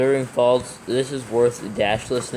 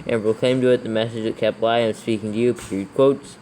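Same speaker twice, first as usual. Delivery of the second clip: dictating. Acted. Dictating verse with punctuation.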